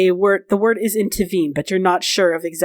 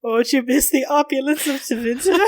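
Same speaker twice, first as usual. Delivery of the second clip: higher, hammed-up mock sympathy; high teasing lilt; mocking tease; 5 semitones higher than usual. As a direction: needle them, about to burst out laughing. Dorian teases Elian again, then laughs.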